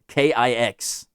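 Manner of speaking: K I X spelled slowly, letter by letter; deliberate, spaced-out letters; spelling out. Real, not acted. Spelling out the band name.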